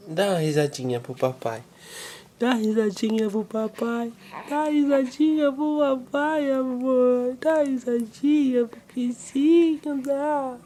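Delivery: gentle sing-song coaxing. Real, not acted. Father coaxing his baby to laugh, gentle baby talk.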